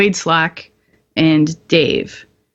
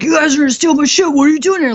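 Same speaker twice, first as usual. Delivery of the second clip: higher, mock indignant officer voice; imitating an angry lieutenant; 8 semitones higher, faster than usual. Lieutenant chasing soldiers out of his Stryker, mock indignant. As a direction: play the petty LT guarding his truck.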